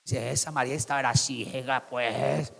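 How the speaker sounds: low, hushed, drawn-out remark; muttered aside. Real, not acted. Preacher aside on Mary's blindness, muttered. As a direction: grumble it under your breath.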